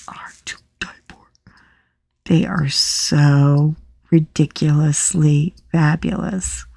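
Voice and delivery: breathy excited whisper. Real, not acted. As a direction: whisper it like a secret treasure. Teasing reveal of sunglasses.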